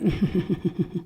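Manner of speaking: soft, repeated little noises; small, quiet stutter of sound without words; stifled noise. Acted. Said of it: "we're like".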